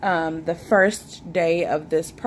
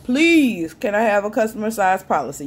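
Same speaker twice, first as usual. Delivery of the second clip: louder pleading Please; emphatic request; 4 dB louder than usual. Retold or imitated. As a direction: lean hard on Please. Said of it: "You don't have to put that much emphasis on it".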